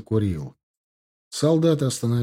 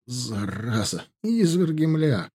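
puffing; slower than usual. Acted. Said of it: "пыхтел Дима".

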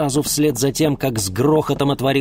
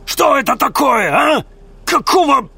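high, loud enraged yelling; bearded thug's furious shout; 7 dB louder than usual. Acted. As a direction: explode at the betrayal. Bearded man erupts in rage.

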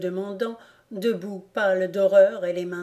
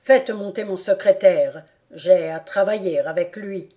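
loud order; 7 dB louder than usual. Acted. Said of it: "dit Maximilien".

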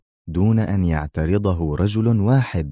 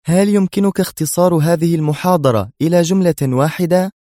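interested; 11 semitones higher, 4 dB louder than usual. Acted. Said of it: "سألته في اهتمام".

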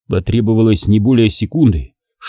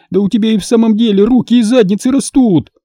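roaring; 11 semitones higher than usual. Acted. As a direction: roar at the clumsy father. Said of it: "взревела дочь".

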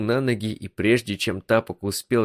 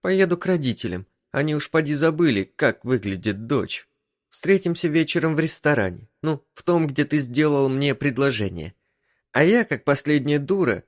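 higher female voice, quick and sulky; hurt wife; 6 semitones higher than usual. Acted. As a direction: brush him off with wounded pride. Wife's lines voiced high.

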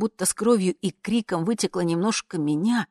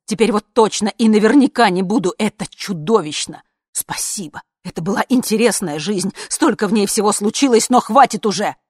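indignant refusal; 5 semitones higher, 10 dB louder than usual. Acted. Mother refusing, worked up.

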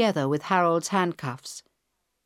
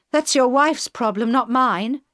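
put-on higher, louder taunting young woman; girl hijacker, mocking; 6 semitones higher, 5 dB louder than usual. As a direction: sneer it at him like a cocky hijacker.

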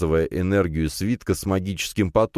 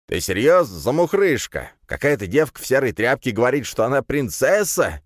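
higher, jeering incredulous question; guffawing mockery; 7 semitones higher than usual. A narrator's reading. Pot-bellied mage mocking the princess, jeering. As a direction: jeer at a nobody's claim. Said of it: "загоготал один из магов".

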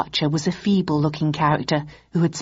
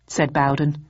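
usual speaking voice

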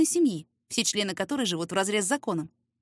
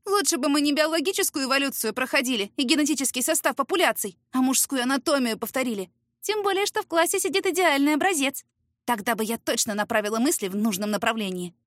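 put-on cheeky girlfriend; 4 semitones higher than usual. Friend's cheeky quote.

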